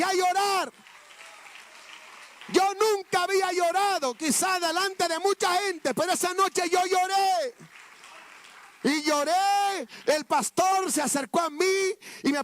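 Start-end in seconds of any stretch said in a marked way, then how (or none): 2.5-9.9 rising preaching fervor. Real, not acted. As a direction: let the tears push it up. Preacher recalls weeping at altar.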